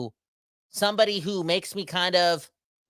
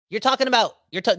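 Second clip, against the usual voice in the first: excited; 8 semitones higher, 4 dB louder than usual. Real, not acted. Excited rant.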